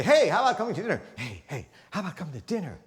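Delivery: change the tune on the repeat; varied inflection. Shown as a demonstration. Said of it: "You could say".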